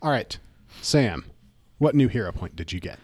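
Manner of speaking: usual speaking voice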